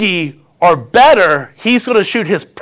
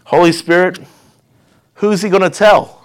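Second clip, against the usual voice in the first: firm. Acted. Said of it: "God says very firmly".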